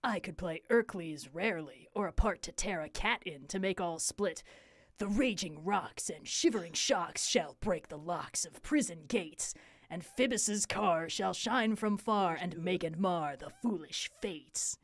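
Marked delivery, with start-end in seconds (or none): 5.0-14.8 lightly hammed tyrant rant; a hint of a bombastic tyrant; a touch of the ranting tyrant in the verse; Ercles' vein. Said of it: "This is Ercles' vein".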